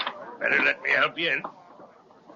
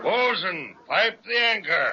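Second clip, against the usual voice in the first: shouted order; 5 semitones higher than usual. Acted. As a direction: bark it out to the crew. Captain orders the crew.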